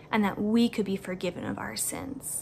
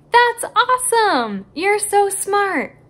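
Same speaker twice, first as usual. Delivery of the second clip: higher, louder delighted cheer; excited praise; 9 semitones higher, 8 dB louder, slower than usual. Real, not acted. Teacher praising children who got the clues, excited. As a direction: celebrate them like they won a prize.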